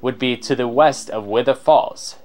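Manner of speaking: mildly pompous explorer, carried away; showy explorer's ramble; extra explorer voice. Acted. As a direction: boast like a theatrical adventurer, then collect yourself. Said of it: "give him an extra voice".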